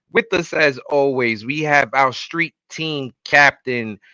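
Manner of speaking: emcee introduction, name stretched out at the end; show announcer. Acted. Host bringing on the street team captain, announcer style. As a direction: introduce him like a ring announcer.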